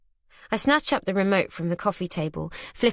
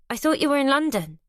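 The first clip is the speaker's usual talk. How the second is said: flustered, higher, spluttering surprise; 7 semitones higher than usual. Acted. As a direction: caught off guard by the daughter. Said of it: "I splutter".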